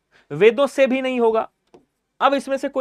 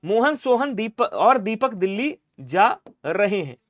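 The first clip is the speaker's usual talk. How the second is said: slow model sentence; slower than usual. Shown as a demonstration. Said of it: "क्या बोलेंगे".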